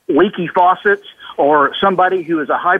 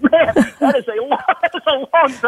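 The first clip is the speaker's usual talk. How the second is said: amused and higher, laughing through it; laughing disbelief; 8 semitones higher than usual. Retold or imitated. Laughing at the CEO's forty-two-year-old story. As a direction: tease him with a chuckle. Joking reply to old anecdote.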